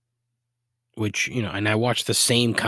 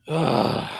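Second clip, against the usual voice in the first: drawn-out fed-up groan; weary "ugh" to close a rant; disgusted groan; 4 semitones higher than usual. Real, not acted. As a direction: groan it out, exasperated. Disgusted after commercial rant.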